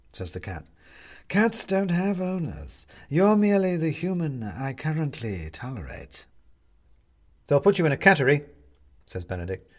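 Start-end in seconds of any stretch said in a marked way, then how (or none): 1.3-6.3 haughty cat. Acted. Aloof cat character speaks. 7.5-8.4 threatening. Acted. Benedict threatens the cat.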